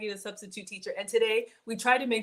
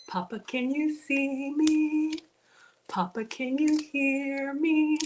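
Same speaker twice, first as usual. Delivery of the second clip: dramatic movie quote; 3 semitones higher, slower than usual. Pretend. Quoting a famous movie line.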